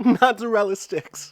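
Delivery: half-laughing celebrity voice. Answering another player who asks for it: rapper voice. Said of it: "how does the rapper say mozzarella sticks?".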